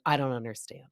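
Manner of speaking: unsympathetic deadpan imitation; Jen Fessler. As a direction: mimic unmoved refusal to sympathize. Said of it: "she's also not being sympathetic".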